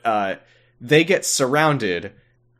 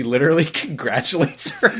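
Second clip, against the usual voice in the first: amused, breaking into laughter; laughing; 4 semitones higher than usual. Real, not acted. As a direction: tell it while cracking up. Cracking up while retelling.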